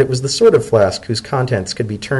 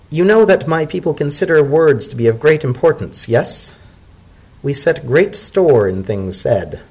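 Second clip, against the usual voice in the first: lightly raised, measured elder voice; a patient old mare explaining custom; zebra elder; 5 semitones higher than usual. Acted. Macaulay lecturing Dodded, in a lightly raised measured voice.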